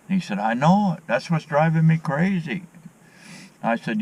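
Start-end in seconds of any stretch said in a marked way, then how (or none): 0.4-2.6 higher-pitched voice for the fellow on the trail; lightly voiced trail buddy, eager agreement; imitating the other man. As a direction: lift the pitch to play the stranger agreeing.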